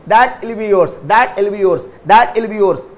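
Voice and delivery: "that will" run together without the w; contracted that'll. Shown as a demonstration. Teacher drills students on the spoken form, contracted "that will". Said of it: "तो that will बोलेंगे".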